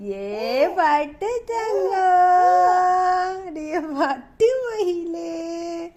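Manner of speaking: slow, drawn-out sing-song endearments. Real, not acted. Cooing pet names at baby. (குழந்தையை இழுத்து இழுத்து கொஞ்சுதல்)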